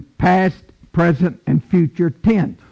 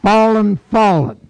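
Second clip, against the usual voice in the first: mighty proclamation; 4 semitones higher than usual. Acted. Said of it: "God's word is coming down".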